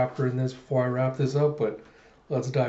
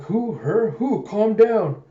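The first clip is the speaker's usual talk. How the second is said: loud, higher confused panic; frantic yelling; 8 semitones higher, 6 dB louder, slower than usual. Retold or imitated. Panicked man yells in confusion, loud and frantic. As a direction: yell each word in a frenzy.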